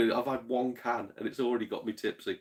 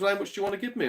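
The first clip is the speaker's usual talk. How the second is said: lightly voiced woman; 10 semitones higher, much faster than usual. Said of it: "She goes".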